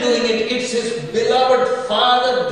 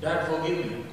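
put-on pleading child; 7 semitones lower, 10 dB quieter than usual. Son begging father in sermon.

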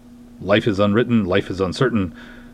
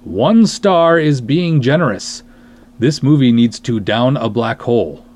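reading a review aloud; 3 semitones higher, 6 dB louder than usual. Retold or imitated. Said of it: "this is what Joe had to say".

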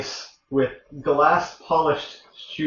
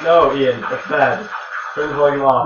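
louder, sharp and urgent; urgent loud warning; 5 dB louder, slower than usual. Real, not acted. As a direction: call out to stop him now. Urgently stopping feedback on stream.

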